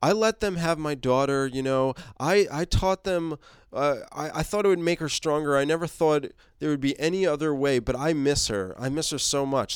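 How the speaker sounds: a mild hint of breaking down; falling apart. Alpha confessing about her daughter, mildly tearful. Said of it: "Alpha just starts falling apart".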